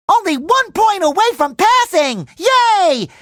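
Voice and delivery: high, bubbly cheer; overjoyed. Acted. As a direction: celebrate like it's a huge win. Celebrates nearly passing the test.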